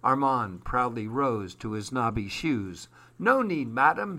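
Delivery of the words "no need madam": haunting. Acted. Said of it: "he said as hauntingly".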